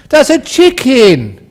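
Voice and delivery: high, loud, drawn-out assertion; acted loud insistence; emphatic insistence. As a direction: repeat it slowly and forcefully as the wife. Wife insists after being questioned.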